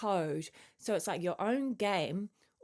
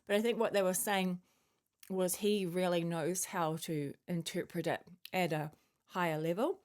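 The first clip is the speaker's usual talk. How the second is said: talking while chewing a mint; words round a sucked peppermint. Real, not acted. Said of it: "I'm just chewing on my peppermint".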